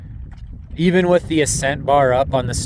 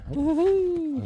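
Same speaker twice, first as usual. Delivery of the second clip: excited whoop; 6 dB quieter than usual. Real, not acted. Cheering on the climb.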